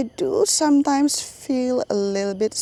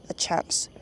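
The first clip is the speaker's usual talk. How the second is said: soft whisper on the last words; whispered wish; 7 dB quieter than usual. Real, not acted. YouTuber whispers her dream of giving people a chance, hushed. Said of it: "people say whisper a dream".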